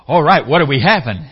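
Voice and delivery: loud, eager question about dinner; eager servant. Acted. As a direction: ask brightly as if you're one of the family. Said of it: "And you go".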